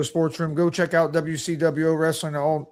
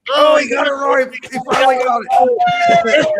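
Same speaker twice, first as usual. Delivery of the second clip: excited teasing; 8 semitones higher, 5 dB louder than usual. Real, not acted. Son teases dad's right answer.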